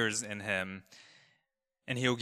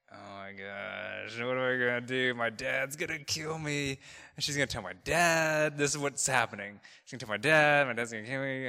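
retold panic. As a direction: act out a worried inner monologue, rising as it goes. Silent ride home, dreading dad.

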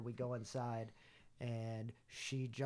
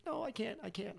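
higher-pitched imitation of an upset partner; mock distressed refusal; 6 semitones higher, 4 dB quieter than usual. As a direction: act out backing out, pitched up. Retelling partner backing out, distressed.

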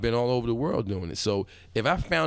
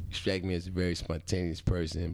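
cheesy pickup line; 4 semitones lower, 4 dB quieter than usual. Retold or imitated. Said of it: "you have to make eye contact".

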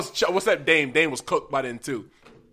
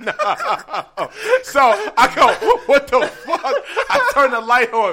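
cracking up while telling the story; telling it through laughter; 3 semitones higher than usual. Real, not acted. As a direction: laugh your way through the tale.

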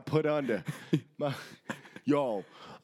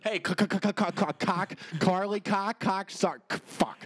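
stuck on the c sound, stumbling over it; a joke stutter, tripping again and again on the same sound; mock stutter; 5 semitones higher than usual. Co-host mocks his own stutter, stumbling on the c. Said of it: "If I could just stop stuttering".

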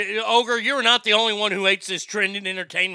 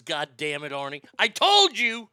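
mock exasperation; 4 semitones lower than usual. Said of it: "Straight Fire says".

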